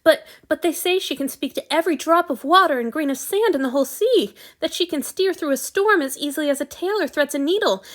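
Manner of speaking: a fan who can't stop talking about his hero; sudden excitement. A narrator's reading. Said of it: "in his sudden excitement".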